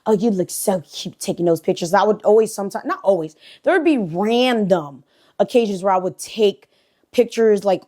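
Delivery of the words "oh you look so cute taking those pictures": slow, softened flirting, lightly imitated; flirty creep. Neighbor flirting over her outfit, lightly imitated creep. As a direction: lay on slow, creepy compliments. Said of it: "he would always try to flirt with me".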